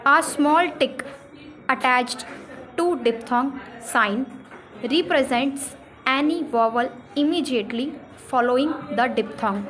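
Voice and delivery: spaced-out reading pace; slow dictation. Shown as a demonstration. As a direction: read out slowly word by word. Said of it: "इसका rule ये है".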